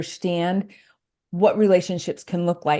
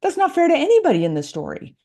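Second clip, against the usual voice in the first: higher-pitched voicing of a younger self's protest; teenage indignation; 4 semitones higher than usual. Speaker recalls her teenage reaction to an unfair story, voiced high. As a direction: lightly act out a teenager's objection, pitched up. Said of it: "even as a teenager thinking".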